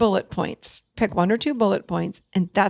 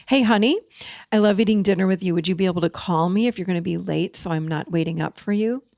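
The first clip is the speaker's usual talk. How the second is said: matter of fact; 2 semitones lower, faster than usual. Shown as a demonstration. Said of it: "It's matter of fact".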